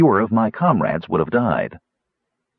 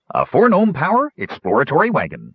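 admiring; 6 semitones higher than usual. A narrator's reading. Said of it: "said Wingover admiringly".

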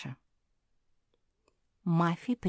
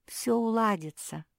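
soothing whisper; 5 semitones higher than usual. A narrator's reading. Singer strokes Mafi and comforts her, whispering. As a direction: hush her gently as you stroke her. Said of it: "говорила певица и гладила Мафи".

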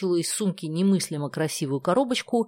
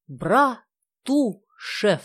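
Братушев drawn out very slowly, each syllable relished; savoring the name; 5 semitones higher, 3 dB louder, much slower than usual. Shown as a demonstration. Nadezhda lets her friends savor the name Братушев, very slowly. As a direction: stretch Братушев out, letting them hear it. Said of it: "вы только вслушайтесь".

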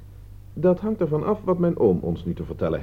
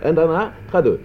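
delighted praise; 3 semitones higher, 6 dB louder, slower than usual. Acted. Praising the clever deduction.

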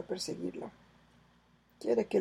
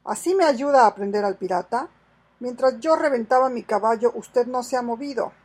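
angry complaint; 3 semitones higher, 8 dB louder than usual. Acted. Soldier scolds idle sergeant.

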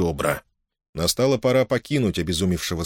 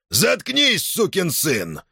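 a sudden much higher barked order; jailer's bark; 10 semitones higher, much slower than usual. A narrator's reading. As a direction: snap it like a brutal guard. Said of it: "рявкнул надзиратель".

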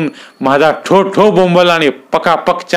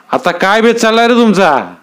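raised, hard interrogation; menacing question; 8 semitones higher than usual. Acted. Dada interrogates the fisherman, whip in hand, menacing. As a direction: demand it like a landlord with a whip.

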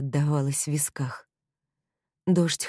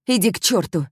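angry shout; 4 semitones higher, 5 dB louder than usual. Acted. Heroine barks at him.

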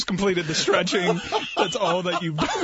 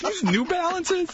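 voicing the German guy; 10 semitones higher, slower than usual.

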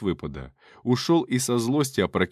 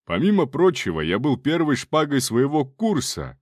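proud shout; 3 semitones higher than usual. Acted. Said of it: "крикнул он".

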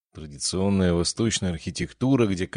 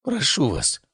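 dramatic moaning plea; 12 semitones higher than usual. A narrator's reading. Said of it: "простонал он".

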